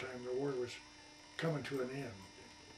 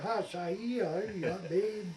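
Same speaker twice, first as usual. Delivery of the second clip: high, louder call down to the boat; 6 semitones higher, 7 dB louder, slower than usual. Retold or imitated. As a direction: hail him from the deck. Calling out to vendor below.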